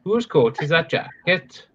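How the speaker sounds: slow put-on Welsh lilt; Welsh accent. Showing a housemate the phrase, in a slow Welsh accent. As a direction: ask it slowly in a Cardiff Welsh accent. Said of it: "What part of Wales is that then?".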